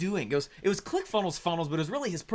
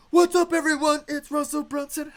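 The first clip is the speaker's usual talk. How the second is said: higher, perky vlogger greeting; Russell Brunson blog intro; 10 semitones higher, 4 dB louder than usual. Retold or imitated. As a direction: chirp it like a cheerful blog opener. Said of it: "he'd be over on his blog".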